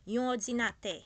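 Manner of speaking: yon, not un, before ordinateur; Haitian Creole yon. Shown as a demonstration. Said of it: "we don't say un ordinateur". (in the talk's language: dire yon ordinateur)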